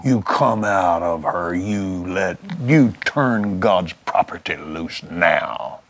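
low, slow, deliberate command; retold roared command. Minister ordering sickness out of a woman, retold commanding tone. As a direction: imitate a stern deliverance command, held low. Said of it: "he roared".

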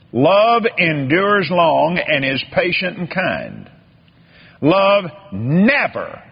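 reading the verse slowly; slow down and let "never" ring; slow scripture reading. Shown as a demonstration. Preacher reading Amplified scripture to the church, slowly. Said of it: "listen to this".

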